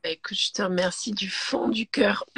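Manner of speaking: real voice giving out; losing the voice towards the end of the phrase; voix qui lâche. Real, not acted. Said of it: "J'ai pas de voix". (la voix qui s'éteint)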